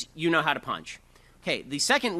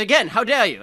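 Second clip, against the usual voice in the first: mock indignant; 5 semitones higher, 8 dB louder than usual. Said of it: "And he said".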